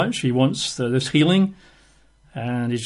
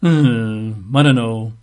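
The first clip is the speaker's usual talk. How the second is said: doubtful musing; 4 semitones lower, much slower than usual. Acted. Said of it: "he thinks".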